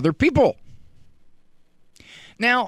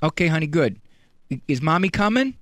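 ordinary delivery

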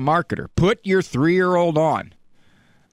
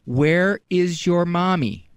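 ordinary talk

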